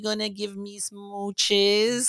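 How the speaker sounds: put-on high, slow baby voice; baby talk. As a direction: coo it sweetly like to a baby. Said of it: "going into baby voice".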